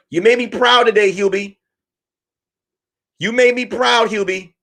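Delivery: a mocking doting wife calling her man; wife calling her husband home, lightly mocking. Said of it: "she's like".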